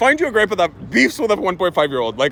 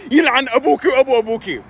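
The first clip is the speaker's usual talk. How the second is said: raised exasperated cursing; cursing grandpa; 5 semitones higher than usual. Retold or imitated. Grandpa starting to curse toddler, exasperated. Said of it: "starting to curse her".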